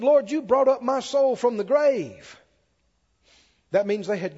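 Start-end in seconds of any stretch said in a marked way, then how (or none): 0.0-2.4 high, loud, drawn-out verse; emphatic psalm declamation; preaching scripture reading. Real, not acted. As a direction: proclaim it from the pulpit. Preaches the verse at full force.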